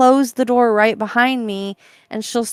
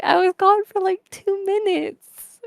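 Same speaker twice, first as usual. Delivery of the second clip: defensive protest; 9 semitones higher than usual. Retold or imitated. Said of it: "It's like".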